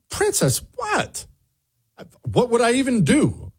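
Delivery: very high mock innocent protest; innocent squeak. Protesting innocence to Princess, high squeak. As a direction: play dumb in a tiny high voice. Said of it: "And I said".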